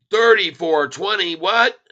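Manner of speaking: surprised exclamation. Real, not acted. Price hits 34.20.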